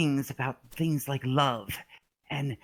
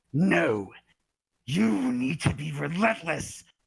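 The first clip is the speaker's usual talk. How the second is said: most evil, demonic put-on demon voice; 2 semitones higher than usual. Retelling how an aggravated woman yelled at him before charging: retelling a demonic evil yell. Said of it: "the most demon, most evil voices, she yells".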